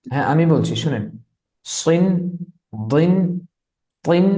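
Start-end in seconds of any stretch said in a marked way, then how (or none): 1.7-4.3 সিন, দিন, তিন said thick and heavy; emphatic Arabic letters for students. Shown as a demonstration. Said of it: "এগুলোকে মোটা করে পড়তে হবে".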